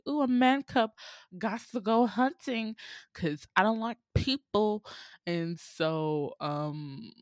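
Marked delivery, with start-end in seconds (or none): 0.1-4.9 scheming tiger. Retold or imitated. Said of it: "And he's like".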